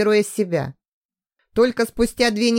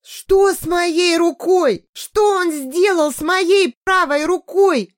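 much higher, louder, slow terrified cry; horrified scream; 10 semitones higher, 4 dB louder, slower than usual. A narrator's reading. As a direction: scream in panic. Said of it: "с ужасом закричала".

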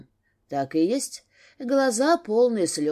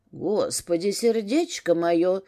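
со стоном; slower than usual. Acted. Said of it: "простонал Стрельников".

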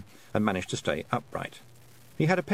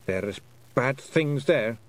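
slow ominous Scottish pixie; 3 semitones higher, much slower than usual. Acted. Rob Anybody warns slowly.

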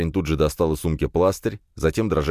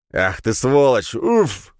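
slow, louder pained curse; angry oath then a grunt; bitten curse; 7 semitones higher, 5 dB louder, much slower than usual. A narrator's reading. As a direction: swear as the bite lands. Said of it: "выдал Глеб".

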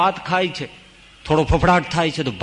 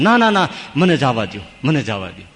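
pleading; 2 semitones lower than usual. Acted. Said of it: "સિંહને કરગરે છે".

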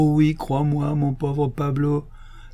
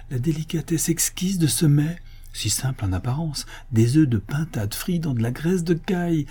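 higher-pitched, emotional rapture; tenderly moved; 4 semitones higher than usual. Acted. Gourmand tells his majordomo he eats again, moved and rapturous. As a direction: marvel over every mouthful. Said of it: "s'écria d'une voix attendrie".

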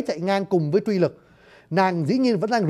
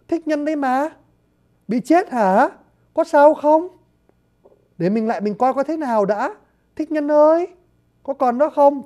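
put-on higher, a startled girl calling out; 6 semitones higher than usual. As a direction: call to him, pitched up and anxious. Chiết Quế finds Thích Nhân. (giọng cô gái hốt hoảng, cao giọng gọi)

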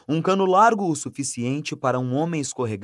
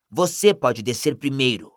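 growling. Acted. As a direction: growl it at him. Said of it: "rosnou Rony".

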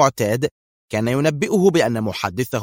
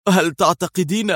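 higher, eager question; eager excitement; 7 semitones higher than usual. A narrator's reading. Qadri asks Mona eagerly about the mission. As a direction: rush it out, hungry to know. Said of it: "في لهفة وانفعال".

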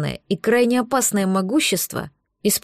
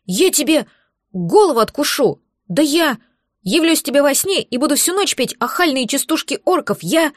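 furious threats; 5 semitones higher than usual. Acted. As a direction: rant like a frightened little dragon. Terrified dragon making wild threats.

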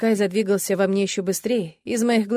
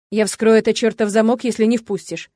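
loud threat; 5 dB louder than usual. Acted. Kai threatens through bathroom door.

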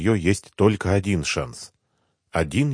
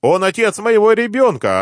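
very high, loud yell; орёт; 14 semitones higher, 6 dB louder than usual. A narrator's reading. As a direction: bawl the accusation at the top of your pitch. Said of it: "орала Рима". (орать высоко и громко)

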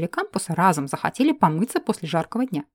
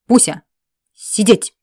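louder barked order at the squirrel; barked command; 8 dB louder, slower than usual. Acted. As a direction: snap «сидеть!» like a dog command. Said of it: "рявкнула я". (громко рявкнуть команду «сидеть!»)

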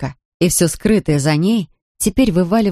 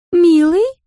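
put-on high, questioning drunken "Милый?" rising at the end; drunk woman calling; 13 semitones higher, 5 dB louder than usual. A narrator's reading. Drunk Larisa calls to Ramsey, high rising "Милый?". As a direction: call out "Милый?" as a tipsy, wistful question. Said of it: "заговорила она".

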